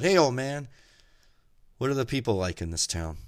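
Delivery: loud, high call from the car; driver yelling. Acted. Second driver calling out to the old man, loud. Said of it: "this driver yells out".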